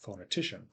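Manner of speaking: pho-ne-TI-cian, lighter stress on PHO; main stress on third syllable of phonetician. Shown as a demonstration. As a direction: lean on TI in phonetician. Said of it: "as in the first syllable of".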